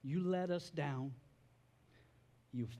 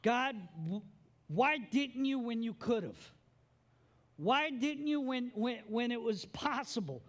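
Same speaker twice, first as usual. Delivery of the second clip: anguished prayer; 5 semitones higher than usual. Pretend.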